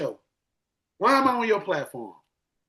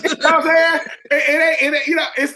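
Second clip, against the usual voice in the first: laughing; 8 semitones higher, 7 dB louder, faster than usual. Real, not acted. Laughing at his wife joke.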